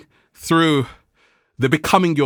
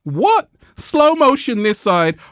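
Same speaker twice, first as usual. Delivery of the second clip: playful aside; 8 semitones higher, 4 dB louder, slower than usual. Real, not acted. Aside to cameraman Ralph.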